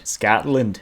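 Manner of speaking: a half-hearted Scottish "Scotland"; a hint of Scottish, badly done; weak Scottish accent try. Shown as a demonstration. Viewer asked for Scotland, a weak Scottish try. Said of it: "that was so bad".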